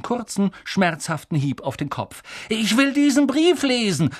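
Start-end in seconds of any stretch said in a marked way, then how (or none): 2.5-4.1 put-on high, insistent boy's voice; loud demand. Son unused to being ignored, loud high demand. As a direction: demand it as a spoilt son would. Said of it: "sagte er laut".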